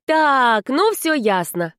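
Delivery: put-on fed-up girl breaking in; cutting him off. A narrator's reading. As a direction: shut him down firmly. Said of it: "оборвала домового Влада".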